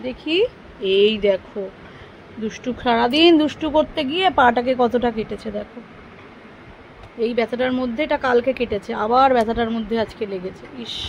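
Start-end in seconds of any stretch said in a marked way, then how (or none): 0.0-5.8 mother comforting son over his cut; tender concern. Real, not acted. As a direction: gently show the wound. Tending the child's cut foot.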